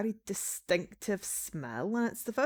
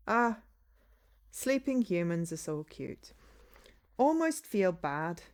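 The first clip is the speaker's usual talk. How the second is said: lightly Scottish vampire voice; a Scottish twang creeping in. Acted. Vampire muttering over the sleeping human with a Scottish twang. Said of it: "I've got the Scottish twang".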